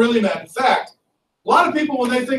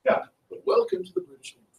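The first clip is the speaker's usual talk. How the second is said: British officer voice; 11 semitones higher, 8 dB quieter, faster than usual. Acted. Teacher plays the impressing British officer.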